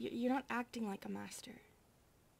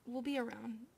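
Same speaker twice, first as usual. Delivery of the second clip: whispering. Acted. Maid offering the master help, whispered.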